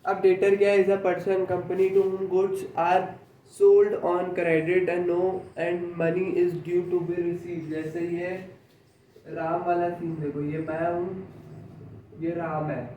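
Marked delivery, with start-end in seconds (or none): 0.8-7.7 slow, word-by-word dictation; teacher reading a definition aloud for notes, very slowly. Shown as a demonstration. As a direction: dictate each word slowly so students can write. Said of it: "dictating the definition".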